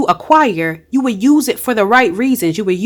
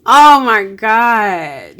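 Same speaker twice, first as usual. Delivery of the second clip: moved, emotional; 6 dB louder, much slower than usual. Real, not acted. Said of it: "I don't know why I'm feeling emotional".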